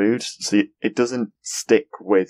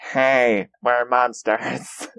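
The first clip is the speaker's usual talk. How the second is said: slow, silly monster voice; lightly voiced lame monster; mock monster voice; 4 semitones higher, much slower than usual. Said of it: "the monster voice".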